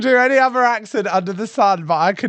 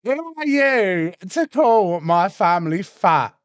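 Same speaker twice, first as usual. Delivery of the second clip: slow, mock-indignant repeat; lightly imitated slow outrage; mimicking an argument. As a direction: parody the outraged contestant, stretching the words. Mimics argument line from played clip.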